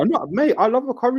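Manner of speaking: sing-song emphasis on love; odd delivery. Real, not acted. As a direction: lean into love. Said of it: "why did you say it like that?".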